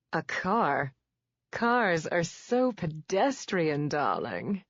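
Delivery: lightly voiced glamorous diva, slow and drawn out; Zsa Zsa voice. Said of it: "in her best Zsa Zsa voice".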